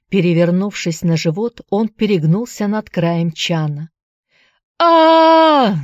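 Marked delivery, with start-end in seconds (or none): 4.8-5.7 long high loud scream; piercing agonised cry; scream of pain. Acted. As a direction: scream as hand burns in hot dye. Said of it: "закричал он".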